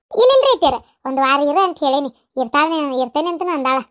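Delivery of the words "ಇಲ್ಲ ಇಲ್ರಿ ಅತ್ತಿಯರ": hasty denial. Acted. Daughter-in-law protests to mother-in-law.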